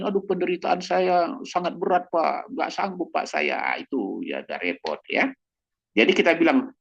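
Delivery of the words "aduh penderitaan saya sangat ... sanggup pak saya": mock whining at higher pitch, sighing over heavy suffering; whiny complaint. Believer complaining to pastor, mock whine. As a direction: play the self-pitying believer moaning to the pastor. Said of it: "jangan kita bilang ini".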